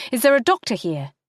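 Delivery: high, fast, rising panic; panicked call. Acted. Lynn calls out to the restaurant in sudden panic. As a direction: call out for a doctor, losing her composure. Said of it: "slip sliding into uncharacteristic panic".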